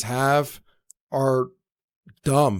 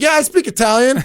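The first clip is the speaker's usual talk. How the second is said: higher, laughing bluff; eager fake claim, laughing; 10 semitones higher, 5 dB louder than usual. Claiming to speak Italian through a laugh, higher and louder. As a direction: blurt it out, grinning at the lie. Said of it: "I was like".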